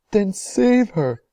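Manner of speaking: high, loud, slow desperate cry. A narrator's reading. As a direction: beg them to save her. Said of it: "cried Missus Salt".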